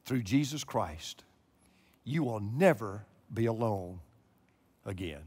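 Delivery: slow and soft, dropping low; preacher softens after the climax; hushed. Real, not acted. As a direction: bring them down to a whisper of certainty. Quiet close after climax.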